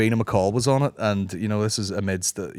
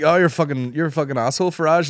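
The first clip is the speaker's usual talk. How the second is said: higher-pitched jeering accusation; mock insult; 5 semitones higher than usual. People calling a politician out, mock-indignant. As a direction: have a go at him, half in jest.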